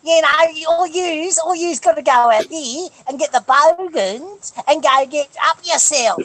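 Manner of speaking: high, broad Australian bogan ranting; hammed-up Aussie accent. Proving he's Aussie enough, exaggerated broad Australian. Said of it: "I'm being Aussie".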